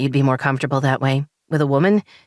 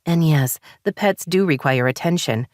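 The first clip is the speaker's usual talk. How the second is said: higher, frustrated rising voice; wife venting frustration at husband, higher and heated; 4 semitones higher than usual. Acted. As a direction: let the frustration boil over. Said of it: "frustration bubbling up inside".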